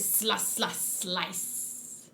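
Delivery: breathy whispered slice; soft whispered slice, slice; whispered sound effect. Acted. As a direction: hush it like a blade swishing. Reading sound effect text.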